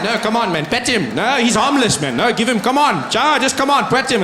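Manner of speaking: lightly voiced insistent dog owner; coaxing dog owner. Dog owners telling a wary visitor to pet the dog, coaxing. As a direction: coax them along in a quick mock plea. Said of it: "white people tell you to touch their dogs".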